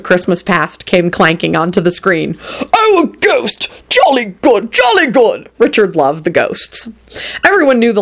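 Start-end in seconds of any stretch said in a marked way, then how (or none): 2.7-5.5 high-pitched gleeful cheer; delighted exclamation. Acted. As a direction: cheer the ghost on. Delighted ghost lover watches film.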